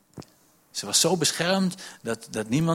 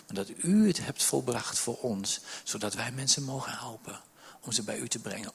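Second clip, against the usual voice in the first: hushed prayer; 5 dB quieter than usual. Acted. Voicing a prayer to God.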